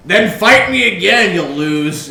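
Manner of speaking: loud, drawn-out cocky challenge. Acted. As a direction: taunt loudly, high then dropping. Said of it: "he's being all cocky and everything".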